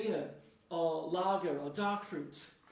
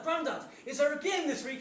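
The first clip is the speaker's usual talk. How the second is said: high, excited question; acted little kid's plea; eager child; 6 semitones higher, 4 dB louder than usual. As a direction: pester granddad with keen hope. Eager child asking granddad.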